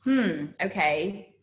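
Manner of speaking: slow, thoughtful hmm; reality dawning, slow and considering; pondering. Retold or imitated. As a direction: drag it out as it sinks in. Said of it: "reality dawned on me and I was like".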